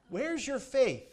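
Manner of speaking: a rising rebuke, pressing the disciples. Retold or imitated. Jesus rebukes disciples in boat.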